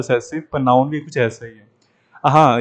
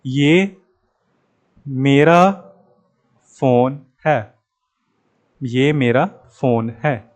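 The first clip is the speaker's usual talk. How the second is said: claiming ownership; much slower than usual. Retold or imitated. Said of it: "जिसका है वो आके बोलेगा ना".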